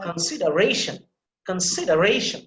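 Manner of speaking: "consideration" with a little stress on the secondary syllable. Shown as a demonstration. Teacher repeating the word after a student, secondary stress in "consideration". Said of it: "a little bit of stress there".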